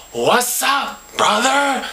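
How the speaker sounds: annoyed call after a hard shoulder tap; angry greeting. Retold or imitated. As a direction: greet him with irritation. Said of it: "So this time I am angry".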